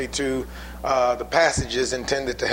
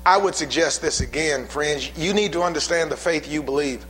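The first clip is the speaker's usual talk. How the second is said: fiery preaching; 3 semitones higher than usual. Acted. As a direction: preach it with rising fire. Preacher building to full force.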